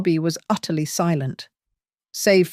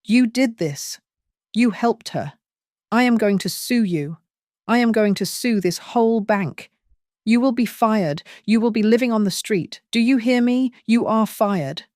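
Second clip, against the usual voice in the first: raised, higher rant of threats; furious tirade; 4 semitones higher than usual. Acted. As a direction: rant at him with rising fury. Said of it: "Her tirade".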